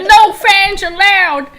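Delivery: high, loud, drawn-out proclamation; Nightbot. Retold or imitated. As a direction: shout it slowly like a bossy bot. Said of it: "and it's like".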